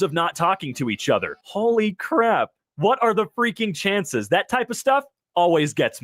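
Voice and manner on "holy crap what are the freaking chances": slow, higher amazed exclamation; drawn-out stunned gasp of words; stunned surprise. Real, not acted. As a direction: let the amazement sink in. Reacting to surprising reunion.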